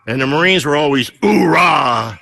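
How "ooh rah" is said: a moderately louder Marine battle yell, voice a bit apart from his own; battle cry. Retold or imitated. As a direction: bark it out like a Marine on the drill field. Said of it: "always have their battle cries".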